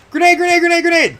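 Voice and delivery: loud high warning yell; grenade warning yell. Real, not acted. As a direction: shout it as a warning.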